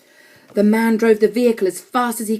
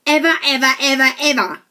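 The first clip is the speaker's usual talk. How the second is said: EVER punched higher each time; emphatic repetition; 5 semitones higher, 4 dB louder than usual. A narrator's reading. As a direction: hammer out every "ever". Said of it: "another ever in that sentence for emphasis".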